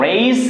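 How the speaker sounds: "রেইস" said as English "race"; pronunciation demo. Shown as a demonstration. Teacher showing learners how R-A-C-E sounds, pronunciation demo. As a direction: model "রেইস" with a long "ay" and final s. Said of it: "এখন আমরা একটা pronunciation শিখব".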